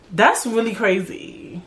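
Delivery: slow, drawn-out sympathetic response; non-judgmental reaction. Shown as a demonstration. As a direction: react slowly, just listening without judging. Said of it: "Just listen and be like".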